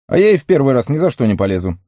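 high, rapid outburst; cried out. A narrator's reading. Pippin refuses to go into Moria, high rapid cry. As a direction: blurt out a refusal, high and fast. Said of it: "выкрикнул Пиппин".

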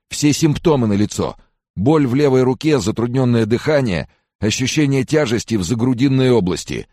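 high-pitched anxious listing of symptoms; moaning complaint. A narrator's reading. Hypochondriac recites symptoms to doubting friend, moaning. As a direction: press each symptom home, high and urgent. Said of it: "продолжал стонать Фрэнсис".

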